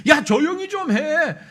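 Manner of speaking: annoyed hush. Acted. Crowd hushing the blind men.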